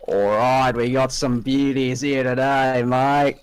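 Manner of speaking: put-on light Aussie accent; a touch of Australian twang. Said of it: "Stop doing the Australian accent".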